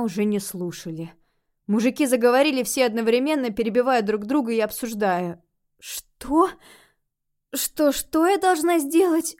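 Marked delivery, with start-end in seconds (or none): 5.8-9.4 high, stammering disbelief; shocked gasp. A narrator's reading. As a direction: ask it high and aghast. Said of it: "ахнула я".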